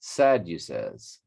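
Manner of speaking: Sadducees slowly as SAD-you-sez, short last vowel; echoed pronunciation. Shown as a demonstration. Reader copying a pronunciation video, slow SAD-you-sez. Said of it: "how it's pronounced here".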